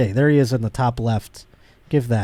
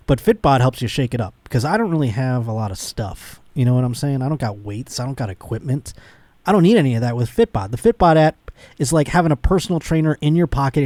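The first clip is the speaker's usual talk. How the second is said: upbeat podcast ad read. Acted. Host reading a sponsor spot to listeners, upbeat ad read.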